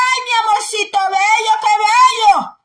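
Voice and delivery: put-on syrupy doting coo to a spoiled child; mock a parent sweet-talking the kid; a parent cooing over a thieving son, mocking sweet voice. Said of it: "le va a decir".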